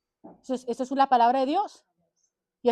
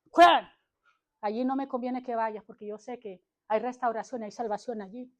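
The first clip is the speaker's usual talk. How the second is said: 1 Satan whispering. Retold or imitated. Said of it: "Satanás jalándolos, mira".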